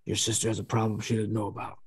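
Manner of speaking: lightly imitated worried dad, subdued; dad's ominous tone. Dad phoning about sister's problem, mildly ominous. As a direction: break bad news gravely, with a heavy pause. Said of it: "He says".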